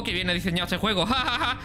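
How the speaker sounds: giggling through the words; laughing. Real, not acted. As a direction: laugh while praising it. Laughing at game design.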